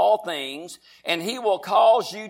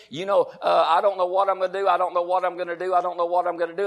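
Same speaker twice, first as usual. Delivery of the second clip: rapid, repetitive fretting on one level tone; mock upset; faster than usual. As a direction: imitate someone upset, rattling it off. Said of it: "every single one of us can get upset".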